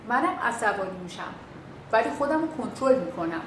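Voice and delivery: calm reply. Shown as a demonstration. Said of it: "میگی که".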